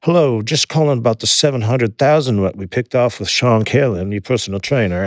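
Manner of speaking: lightly imitated Australian police caller; Australian accent. Police phoning about the seized cash, light mock Australian accent. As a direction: put on a hint of an Australian accent. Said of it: "an Australian accent".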